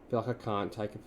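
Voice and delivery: sick and short of breath, with quiet strained lines. Real, not acted. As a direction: talk sick, short of breath and holding back a cough. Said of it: "yeah, really short of breath".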